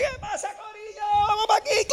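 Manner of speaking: very high, hollered Spanish hype; rally the crowd in a high holler; excited calling out. Retold or imitated. Preacher turning round to students, excited calling out. Hypes up the Puerto Rican students.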